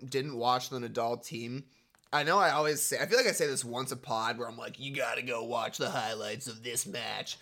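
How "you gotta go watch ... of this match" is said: a hint of a TV sports reporter; lightly voiced sportscaster read. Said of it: "is that your sports reporter voice".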